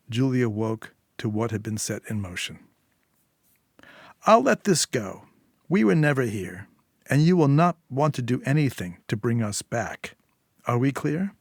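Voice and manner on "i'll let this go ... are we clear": a hint of a cool threat, pitched up; lightly voiced warning. Fixer warning Julia never to bring them back, lightly voiced. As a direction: lightly play the fixer setting terms.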